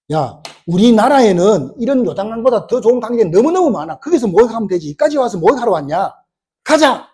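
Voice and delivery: a touch of huffy anger, rising on the final command; angry general. Acted. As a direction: act out an offended commander, ending on a sharp order. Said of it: "화를 내면서".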